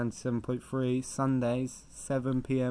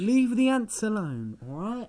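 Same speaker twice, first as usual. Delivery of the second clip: indignant; 8 semitones higher, 3 dB louder than usual. Acted. Argument about ants continues.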